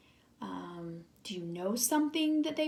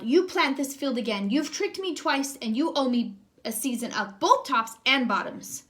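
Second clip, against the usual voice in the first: growling Bear; 2 semitones higher, 4 dB louder than usual. Acted. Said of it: "Bear growled".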